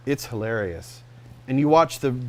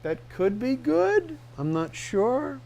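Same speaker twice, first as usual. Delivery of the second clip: doubtful trailer voice; 12 semitones higher, slower than usual. Retold or imitated. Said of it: "Or sometimes it's like".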